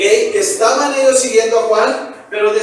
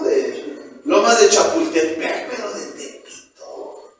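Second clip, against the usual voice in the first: snobbish scoff; 5 dB quieter than usual. Acted. Prejudiced snob scoffing at someone from Tepito, soft sneer. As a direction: turn your nose up at Tepito.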